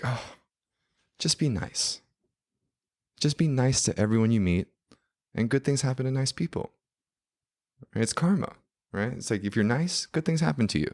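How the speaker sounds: high, gentle British godmother; nice fairy godmother. Retold or imitated. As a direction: sweetly advise them in a high voice. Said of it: "like, fairy godmother energy".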